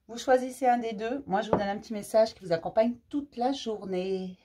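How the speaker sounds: slightly breathless, catching air; struggling to breathe while talking; short of breath. Real, not acted. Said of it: "j'ai du mal à respirer".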